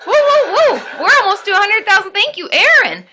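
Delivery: high, loud gushing; whoop, then gush loudly with thanks; excited cheering. Real, not acted. Streamer nearing a hundred thousand, high loud excited cheering.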